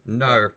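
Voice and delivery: "No" bent toward an Australian "nar"; Australian-vowel "No". Retold or imitated. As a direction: imitate an Australian saying "No" as "nar". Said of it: "how to speak Australian".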